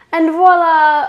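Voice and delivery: loud, high, ringing reveal; triumphant announcement. Real, not acted. Baker showing off finished cookies, loud triumphant reveal. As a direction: call it out with a flourish.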